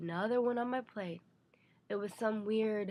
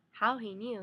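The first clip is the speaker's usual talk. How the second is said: ordinary delivery, nothing marked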